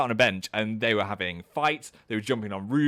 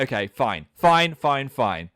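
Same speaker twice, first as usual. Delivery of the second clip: mock huffy giving in, louder mid-way; grudging acceptance; 4 dB louder, slower than usual. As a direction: act out a reluctant, repeated concession. Retold grudging giving in on stairs.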